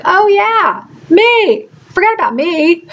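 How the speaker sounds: high, mock self-pitying; sarcastic quote. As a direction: toss it off with a wry sarcasm. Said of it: "who brought it to my attention like".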